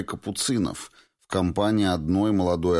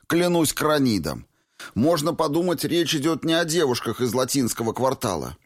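put-on a lightly raised, indignant young man; mild protest; 9 semitones higher than usual. A narrator's reading. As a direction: Clifford defending himself to Valentina, mildly indignant. Clifford protesting.

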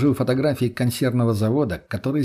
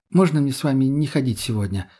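ordinary delivery

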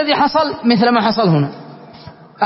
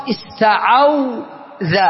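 slow demo; much slower than usual. Shown as a demonstration. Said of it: "نقلنا حركة الحرف المعتل".

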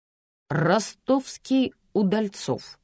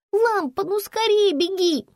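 put-on high, louder child's urgent voice; anxious little girl; 14 semitones higher, 4 dB louder, slower than usual. Girl begging Lampa to hurry with a high urgent child's voice. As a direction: sound like a scared little girl left alone.

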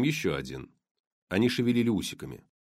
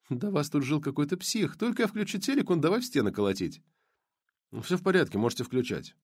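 lightly voiced blonde; 5 semitones higher than usual. Blonde speaking, higher voice.

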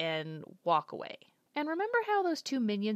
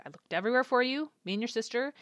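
mild imitated upset mom; 4 semitones higher, 3 dB louder, faster than usual. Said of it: "she was so upset".

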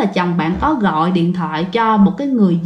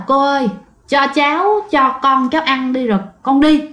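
higher, pleading voice; begging voice; 4 semitones higher than usual. Retold or imitated. Mother begs the ghost woman to feed her baby, pleading. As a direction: beg her to let you feed the baby.

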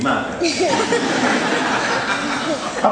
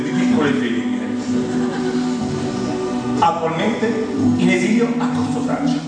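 mock documentary narration. Comedian narrating his own origins as a wildlife documentary, mock-solemn. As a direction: announce it grandly, drawing out the phrases.

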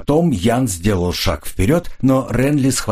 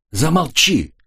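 sharp, higher shout at him; girl shuts Jan up with a shout, shouting; 8 semitones higher, slower than usual. A narrator's reading. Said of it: "закричала на него девушка".

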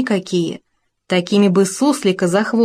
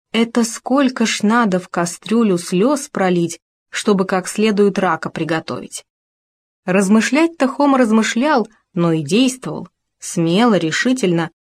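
usual speaking voice

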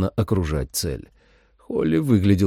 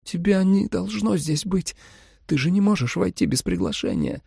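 faltering babble; 11 semitones higher than usual. A narrator's reading. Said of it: "пролепетала Джули".

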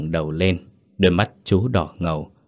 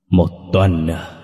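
slow, breathless whisper full of doubt; suspicious whisper; 4 dB louder, slower than usual. A narrator's reading. Ghostly grandmother questions her son in a suspicious whisper. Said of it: "Giọng bà nội hỏi lại, đầy nghi hoặc và cảnh giác".

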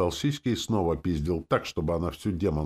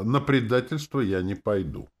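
firm, slightly raised refusal; curt refusal; 5 semitones higher than usual. A narrator's reading. Leader refusing to betray the demon, firm and curt. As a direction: state it as final. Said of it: "отрезал я".

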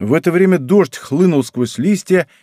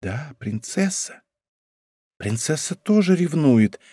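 1 meaningful remark; 3 semitones higher, 5 dB quieter, slower than usual. A narrator's reading. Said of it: "многозначительно заметила лавальер".

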